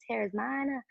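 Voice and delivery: a light Essex accent on teres minor; a hint of Essex accent for a laugh. Shown as a demonstration. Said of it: "a Essex accent".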